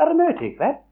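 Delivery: eager surprised question. Retold or imitated. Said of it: "sa hun".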